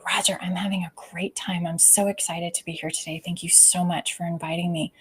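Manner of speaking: softly sincere and meaning it. Shown as a demonstration. Thanking Roger for the invite, genuinely sincere. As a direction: say it like you truly mean it. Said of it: "You hear that I actually mean that".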